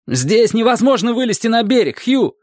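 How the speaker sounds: high, urgent call to the ferryman. A narrator's reading. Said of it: "крикнул Дик".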